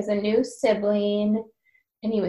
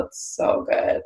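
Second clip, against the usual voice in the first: whisper; slower than usual. Real, not acted. Gushing about a favourite book.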